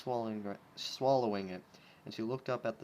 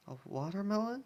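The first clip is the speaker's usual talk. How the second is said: 1 unimpressed question; 9 semitones higher than usual. Acted. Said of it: "said plainly".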